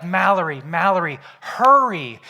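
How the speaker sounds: put-on calling the girl to hurry up; urgent calling. Dad calling his daughter in the bathroom, urgent loud call. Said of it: "And so he's like".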